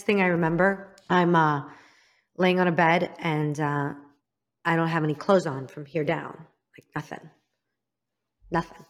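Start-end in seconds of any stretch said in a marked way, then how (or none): 4.6-8.8 whispered, much softer; a quiet whisper over a painful memory; hushed memory. Real, not acted. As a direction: barely voice it, hushed. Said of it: "painful memory".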